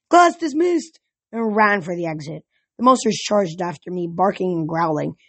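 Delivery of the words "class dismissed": high-pitched yelled dismissal; bold, raised announcement. A narrator's reading. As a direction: call it out while making a getaway. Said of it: "jumped out of the cart and yelled".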